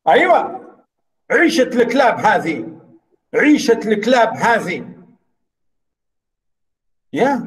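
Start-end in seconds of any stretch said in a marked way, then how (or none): 1.3-2.8 fast Arabic rendering. Shown as a demonstration. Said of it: "We say this in Arabic". 3.3-4.8 fast Arabic rendering. Shown as a demonstration. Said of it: "We say this in Arabic".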